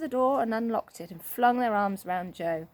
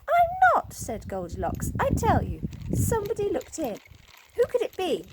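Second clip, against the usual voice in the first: much higher, louder insisting; insistent fright; 10 semitones higher, 4 dB louder than usual. A narrator's reading. Goldilocks insisting someone looked in, high and loud. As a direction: plead to be believed. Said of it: "Goldilocks gave a scream".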